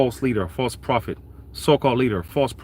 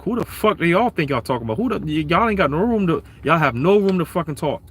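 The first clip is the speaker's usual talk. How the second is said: raised-pitch scolding on the Lord's behalf; indignant cursing out; 6 semitones higher than usual. Retold or imitated. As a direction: cuss them out, pitched up, no shouting. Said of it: "the Lord is cursing Jake out".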